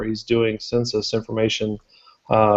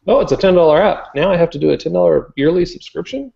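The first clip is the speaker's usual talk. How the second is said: mock complaining customer; 6 semitones higher, faster than usual. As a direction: whine about paying twice.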